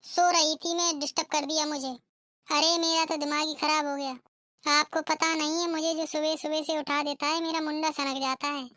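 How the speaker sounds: lightly voiced cranky bride, freshly woken; a sleepy bride snapping back; rude young bride. (नींद से उठी बदतमीज़ बहू की आवाज़)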